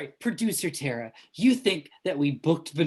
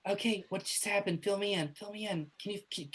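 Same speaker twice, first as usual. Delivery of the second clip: little ghost voice; 2 semitones higher than usual. Acted. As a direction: talk it gently as a timid ghost. Ghost NPC keeps talking.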